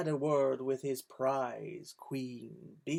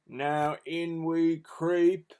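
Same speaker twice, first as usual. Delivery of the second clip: Hugh creeping in; 5 dB louder, much slower than usual. A narrator's reading. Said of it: "said Hugh".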